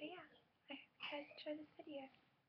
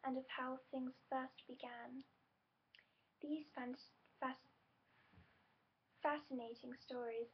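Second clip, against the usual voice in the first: louder storybook read of the blurb; reading aloud a bit loudly. Real, not acted. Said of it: "I had to read it a bit loudly".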